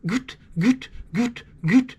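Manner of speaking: short clipped goose clucks by mouth; goose cluck sound. Shown as a demonstration. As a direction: voice the goose cluck, quick and punchy. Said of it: "just start with just a cluck".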